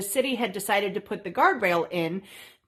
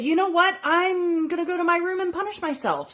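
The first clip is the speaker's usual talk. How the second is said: higher, theatrical self-pity; mock dramatic exit; 7 semitones higher than usual. Daughter escaping her parents with a mock-dramatic exit. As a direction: flounce off with a dramatic line. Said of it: "And I said".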